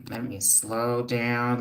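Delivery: slow, deliberate words; slowing it right down to calm herself; each word drawn out slowly. Real, not acted.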